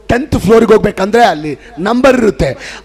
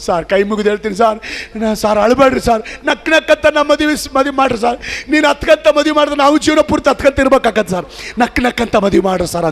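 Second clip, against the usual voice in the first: pleading groom; 5 semitones higher than usual. Retold or imitated. Groom begs pastor in joke.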